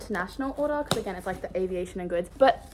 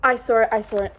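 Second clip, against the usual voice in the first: gasping, louder, thrilled; excited gasp; 6 dB louder than usual. Real, not acted. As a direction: blurt it out in disbelief. Sees illustration.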